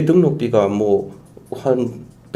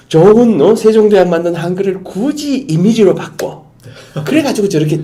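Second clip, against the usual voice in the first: exasperated emphasis; 8 semitones higher, 6 dB louder than usual. Real, not acted. Exasperated at Hangul turned into images.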